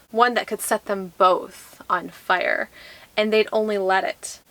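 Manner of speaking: measured read-aloud with weighted phrases; dramatic blurb reading. Acted. Vlogger reads fantasy blurb to viewers, measured dramatic reading. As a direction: read it like back-cover copy, pausing between phrases.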